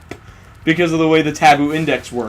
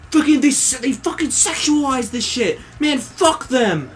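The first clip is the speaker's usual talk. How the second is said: mocking commenter; 8 semitones higher than usual. Commenters complaining in mock voice.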